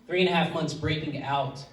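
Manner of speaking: soft, halting, holding back emotion; real emotion catching in the throat, hushed, with long pauses; choked up. Real, not acted. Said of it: "I'm getting all choked up".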